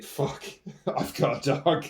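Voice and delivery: slow, breathless whispered disbelief; awed hushed swear with a laugh; stunned whisper. Retold or imitated. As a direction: whisper it like you can't believe it's real. Disbelief on taking dog photo.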